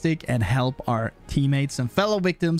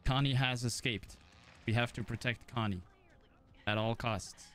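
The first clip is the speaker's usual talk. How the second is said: heroic character voice; 12 dB quieter than usual. Pretend. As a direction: play the noble protector, understated. Plays Leland as hero character.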